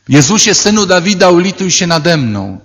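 high pleading cry for mercy. Retold or imitated. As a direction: call out to Jesus for pity. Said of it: "zaczniesz krzyczeć". (wołanie o litość, wysoko)

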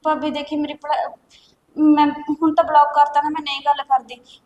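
loud, anxious begging; desperate pleading. Acted. Girl loudly begs her sister-in-law to let her study. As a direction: plead hard not to lose college.

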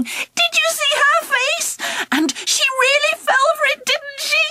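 gleeful laughing. Acted. Friends laughing at the trick.

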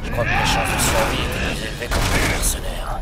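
shouting. Acted. Shouting over battle noise.

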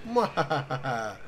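slow drawn-out villain mwahaha; Mandark laugh. Retold or imitated. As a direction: stretch the evil laugh out slowly. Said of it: "Checking it from Mandark".

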